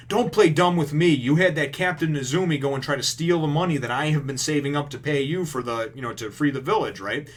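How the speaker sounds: retold fury, lightly acted; angry confrontation. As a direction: tell him off hard. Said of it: "And she's like".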